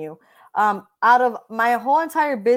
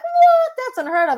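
squeaky high, loud what; mock shock; 7 dB louder than usual. Imitating agents hearing her demand, hammed-up shock.

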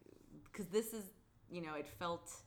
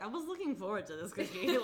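laughing through a quote; 2 semitones higher, 6 dB louder than usual. Retold or imitated. Quoting Eric, laughing.

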